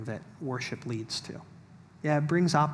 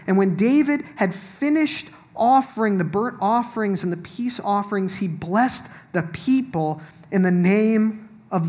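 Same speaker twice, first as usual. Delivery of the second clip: measured Bible reading voice, a little higher and louder; scripture reading; 4 semitones higher, 6 dB louder than usual. Acted. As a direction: proclaim the passage to the room. Reads scripture aloud to congregation.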